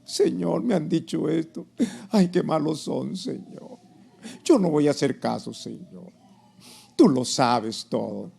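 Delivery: lightly acted plaintive believer at prayer; mock prayer, trailing off on Señor; hint of a self-pitying plea to God; complaining prayer. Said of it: "¿qué haces tú orando?".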